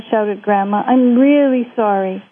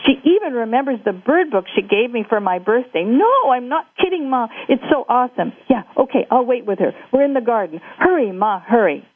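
excited phone call; 4 semitones higher than usual. Acted. Jake phones his mother.

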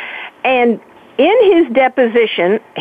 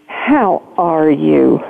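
slow, lower, mock-gentle imitation; imitating a patronizing ex, drawn out; condescending; 6 semitones lower, much slower than usual. Retelling Billy's greeting at the reunion, mock-condescending. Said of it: "gently said in a condescending voice".

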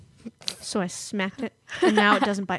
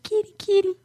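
imitating Will calling; 11 semitones higher, 3 dB louder than usual. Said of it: "He's like".

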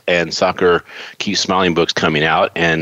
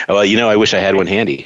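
ordinary delivery

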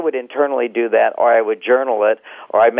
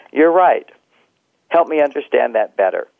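calm reassuring; 2 semitones higher than usual. Shown as a demonstration. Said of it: "I would just pause".

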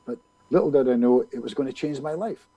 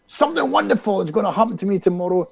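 higher, mildly shouted affirmation; retold self-directed shout; 5 semitones higher than usual. Tipsy man to his hotel mirror, mock shouting. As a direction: imitate shouting at yourself in a mirror. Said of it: "I'm shouting at myself".

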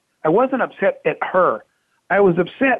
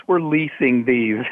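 drawn-out, lower confession; slow reluctant reveal; 5 semitones lower, much slower than usual. Retold or imitated. CFO slowly confessing bad news to his boss.

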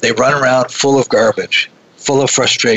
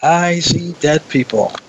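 Haley Joel Osment; 5 semitones higher, slower than usual. Retold or imitated. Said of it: "he looks up and he says".

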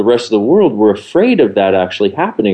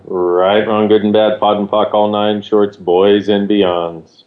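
dictating; 2 semitones lower, slower than usual. Shown as a demonstration. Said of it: "did you get that down".

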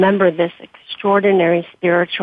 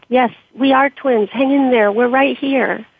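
raised, higher reassuring shout; shouting back; 5 semitones higher than usual. Acted. Wife shouting back to her friend in the crash, raised voice. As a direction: call back to her, urgent but steady. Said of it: "I shouted back".

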